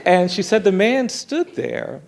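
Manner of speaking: laughing while telling the tense part. Real, not acted. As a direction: let a laugh break through as you set up the moment. Tension building in the story.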